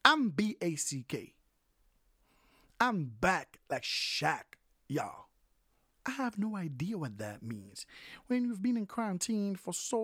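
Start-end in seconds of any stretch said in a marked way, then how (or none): 0.0-5.3 a rapper's boast, slow on back like Shaq; quoting a rapper. Retold or imitated. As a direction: hype it up like a rapper. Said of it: "Bow Wow said it best".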